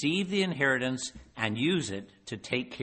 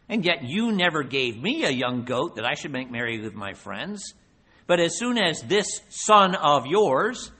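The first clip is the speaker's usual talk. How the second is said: resentful complaint; 2 semitones higher, 5 dB louder than usual. Acted. Resentful older son complains.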